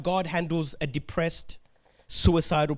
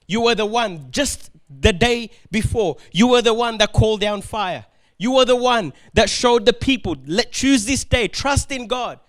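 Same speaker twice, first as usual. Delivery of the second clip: rising, louder mock rebuke; mock scolding; 4 dB louder than usual. Imagined angel berating the prophet Elijah, rising mock scolding. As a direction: build a sarcastic scolding toward the end.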